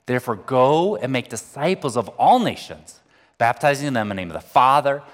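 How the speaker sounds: steady, solemn reading of the verse; scripture reading. Acted. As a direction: proclaim the commission to the congregation. Reads the great commission.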